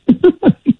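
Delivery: short high real laugh; a quick genuine laugh. Real, not acted. Laughs after a joke.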